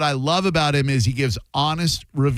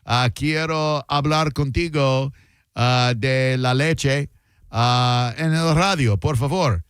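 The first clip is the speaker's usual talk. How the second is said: put-on Spanish-accented radio ad read; mock Spanish-language ad. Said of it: "that sounded Hispanic".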